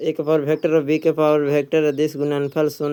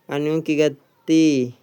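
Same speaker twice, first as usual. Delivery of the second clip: drawn out, falling on गति; slow it down and let गति land; slow emphatic repeat; slower than usual. Shown as a demonstration. Teacher quizzing students, slow weighty repeat.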